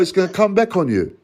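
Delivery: warning thrown at the social worker; firm threat. Real, not acted. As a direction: push the threat out hard and quick.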